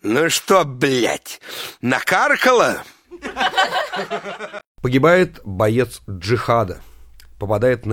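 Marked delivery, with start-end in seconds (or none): 0.0-2.8 put-on angry drunk yell. Drunk husband at 3 am snaps at wife, angry. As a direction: throw it at her with drunk spite. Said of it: "злобно кричит".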